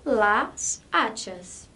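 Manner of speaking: las hachas said very slowly and clearly; careful model for learners; slow demo. Shown as a demonstration. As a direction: drill las hachas word by word. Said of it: "no plural".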